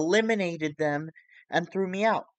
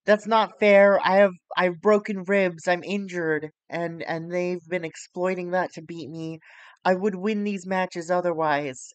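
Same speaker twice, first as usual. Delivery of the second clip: loud, whiny complaint, pitched up; whining; 5 dB louder than usual. Retold or imitated. Wrestler whining to the crowd about her injury, loud whiny complaint. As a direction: whine about the unfair loss. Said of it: "she's basically whining".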